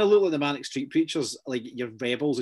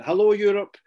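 loud, higher, mock-chirpy TV host greeting; imitating Amanda Holden; 7 semitones higher, 6 dB louder than usual. Mocking Amanda Holden's greeting to Europe, loud and bright. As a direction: ham up a cheery celebrity hello. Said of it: "she came on and she went".

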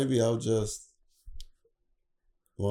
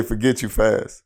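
censored dub; 5 dB louder, slower than usual. Retold or imitated. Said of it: "they'd say".

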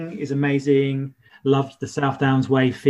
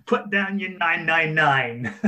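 laughing; 3 semitones higher than usual. Real, not acted. Laughing through parody.

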